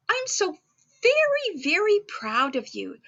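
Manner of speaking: rising high on the first very, then settling; gently gushing praise; proud Santa. Acted. Santa telling the elf he is proud, lifted on very.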